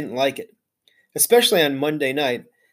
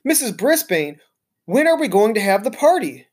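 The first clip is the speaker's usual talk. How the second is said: eager blurt; 5 semitones higher than usual. Acted. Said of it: "Heidi blurted out".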